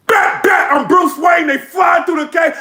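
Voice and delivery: shouted battle rap; hyped battle bars. Retold or imitated. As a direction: bark the bars at the crowd. A rapper's battle bars, retold.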